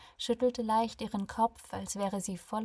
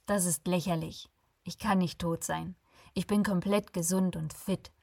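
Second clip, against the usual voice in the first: firm, a bit louder, demanding; serious tone; 4 dB louder than usual. Acted. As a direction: lay it down like an impatient boss. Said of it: "Sein Ton war so ernst".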